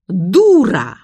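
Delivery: loud squawked parrot shriek of Дура. A narrator's reading. Parrot Hector yells at the dog in Zoya's voice, shrieking. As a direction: squawk it like a parrot mimicking the old lady. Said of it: "голосом Зои Игнатьевны завопил Гектор".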